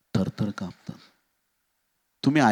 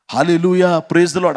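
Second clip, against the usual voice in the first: raised-voice mock praise; mock joyful shouting; 4 semitones higher, 4 dB louder, slower than usual. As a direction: call it out as the disciples supposedly did. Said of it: "शिष्य ओरडायला लागले".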